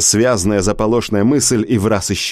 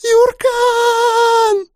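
piercing, far higher scream of a name; desperate scream. Acted. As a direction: scream his name in terror. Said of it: "заорала Хана".

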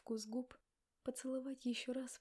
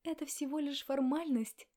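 cut off nervously; 4 semitones higher, 6 dB louder than usual. Acted. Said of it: "отрезала я нервно".

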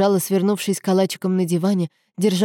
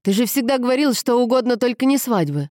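higher-pitched surprised protest; surprised exclamation; 6 semitones higher than usual. A narrator's reading. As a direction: protest in mild disbelief. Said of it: "воскликнул Никола".

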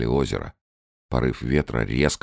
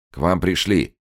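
raised announcing call; 7 semitones higher, 4 dB louder than usual. Acted. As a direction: announce the visitor loudly. Calling from doorway.

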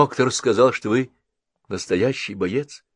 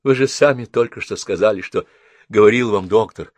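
louder, earnest pleading; urging; 5 semitones higher, 8 dB louder than usual. A narrator's reading. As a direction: push her to keep fighting. Henrietta urging.

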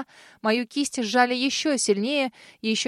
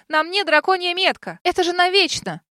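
higher, louder desperate shout; furious yell; 8 semitones higher, 4 dB louder than usual. Acted. Heroine shouting at the dragon about the mark, furious. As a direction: yell it out, beside yourself.

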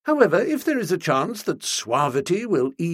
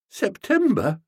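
higher, a touch of a quaver; 7 semitones higher than usual. A narrator's reading. Bertie to Stilton, quavering in dismay. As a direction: let the word wobble in dismay. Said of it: "I quavered".

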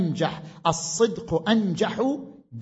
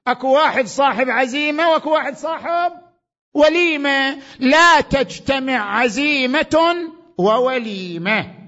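full-force preaching; 9 semitones higher, 8 dB louder than usual. Acted. Preacher thunders Ali's saying to the audience, fervent preaching. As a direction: rouse the hall as if from the pulpit.

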